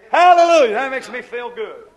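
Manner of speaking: jubilant preacher's shout, high and loud; exultant shout. Real, not acted. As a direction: burst out in praise, then ease down. Preacher exults before his congregation.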